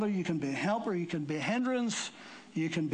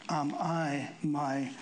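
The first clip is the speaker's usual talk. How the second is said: drops to a breathy whisper on brother's keeper; hushed question; 2 semitones lower, slower than usual. Real, not acted. Preacher poses the key question.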